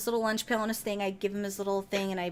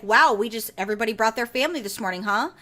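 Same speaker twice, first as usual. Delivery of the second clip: sarcastic dig; 5 dB louder than usual. Retold or imitated. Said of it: "I was kind of like a dick about it".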